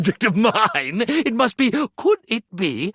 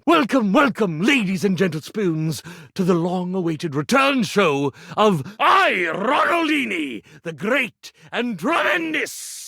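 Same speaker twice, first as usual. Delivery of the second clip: grand stage-magician welcome; showman announcer. Acted. Magician Ronaldini opening his comeback show, grandly. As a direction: announce yourself like a ringmaster.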